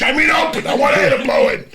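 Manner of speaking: very high, loud, mock-outraged yell; exasperated shout. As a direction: yell the rule like a fed-up kid. Ranting about mom's open door rule.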